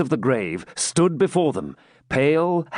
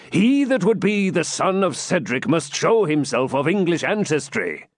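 slightly raised, emphatic patriarch; a hint of a commanding father; lightly voiced Cedric, proud; 3 semitones higher than usual. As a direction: lay down the house rules proudly.

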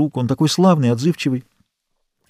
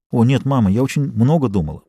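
usual speaking voice

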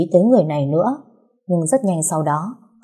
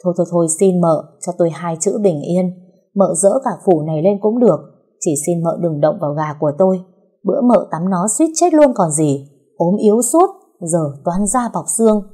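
flustered, fast protest; husband protests frantically over his fighting cock; jumping up in protest. Acted. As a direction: plead in a rush to protect the rooster. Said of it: "dãy nảy như điệu phải vôi".

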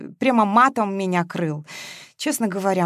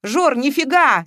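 loud, higher outburst, drawn out; unable to hold back; 7 semitones higher, 5 dB louder, slower than usual. A narrator's reading. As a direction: burst out in protest. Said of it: "не выдержал Матвеев".

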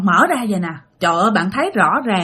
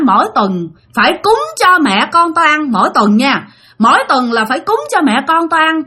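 mildly menacing, raised scolding; resentful warning; 4 semitones higher than usual. Retold or imitated. Ghost ordering weekly offerings from the sleeper, a touch spiteful. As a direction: lay down the terms as a stern spirit. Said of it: "cổ mới hằng học mà dạng".

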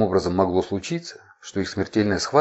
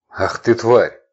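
astonished exclamation; 3 semitones higher, 8 dB louder, slower than usual. A narrator's reading. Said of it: "изумлённо выдохнул он".

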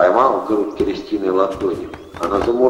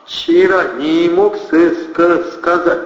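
nervous stammer; 9 semitones higher, 5 dB louder, much slower than usual. A narrator's reading.

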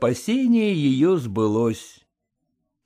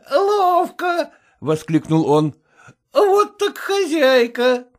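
high mocking guffaw then a cry; guffawing footman; 13 semitones higher, slower than usual. Footman laughing at Vasilisa, mocking. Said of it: "лакей захохотал".

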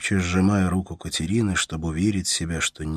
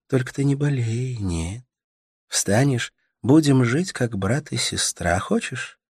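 put-on higher, tender young woman soothing a sick man; Katerina's voice; 6 semitones higher, 3 dB louder than usual. A narrator's reading. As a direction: coax him gently, voice lifted high. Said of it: "Katerina's tender speech".

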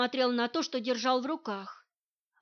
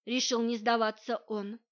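ordinary delivery, nothing marked

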